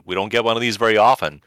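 giddy imitation of writers; mock excited writers. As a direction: play the gleeful writers cashing a blank check. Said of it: "the voice cast and the writers basically said".

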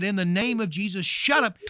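rising to a high, loud shout of shut up; retold scream. Hagin yelling at the monkey demon, loud rebuke. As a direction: rebuke the demon with a sudden yell. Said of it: "he screamed and said".

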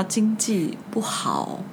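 slow hushed whisper; secretive whisper. Retold or imitated. Old boss confiding to the interviewee, slow mock whisper. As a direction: lean in and whisper it slowly.

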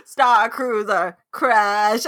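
slow, stretched creature words; lightly done slow creature voice; E.T.-like Ewok voice. Acted. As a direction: imitate an alien sounding out words. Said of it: "you're so right".

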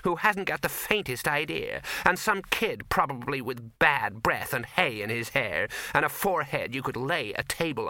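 a hint of a fed-up young actress, slowing at the end; lightly voiced fed-up actress. The actress grumbling to Victor about the studio, mildly bitter. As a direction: vent your grievance to a stranger, a touch bitter.

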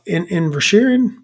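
hesitant restart on "In-, Inisherin"; stumbled pronunciation. Real, not acted. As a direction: trip over the start of "Inisherin". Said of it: "not good at pronouncing things".

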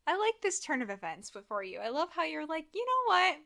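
loud, excited retelling; hammed-up loud Edward voice; loud mock Edward. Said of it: "I'm looking at Edward and I'm like".

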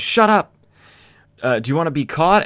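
hammed-up furious boss; angry scolding. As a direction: tear into the men for the noise. Boss scolding noisy henchmen.

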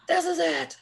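a hint of an exasperated friend; mock exasperated friend. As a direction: play the fed-up friend putting her foot down. Friend's exasperated retort, retold story.

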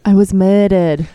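slow mock-British echo; Princess Diana. Co-host echoing the princess impression, slow mock British. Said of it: "Princess Diana is like".

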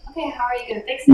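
loud, fast, pushy demand; demanding fixer. Retold or imitated. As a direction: push them for a fix, quickly. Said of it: "so we're like".

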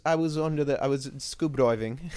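lightly mimicked British narrator accent; Graham Hancock. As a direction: imitate a British audiobook reader, playfully. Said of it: "you get his beautiful voice".

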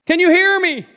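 lightly voiced God calling down to Jack; voice from above. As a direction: answer down the cliff. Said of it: "a voice returned".

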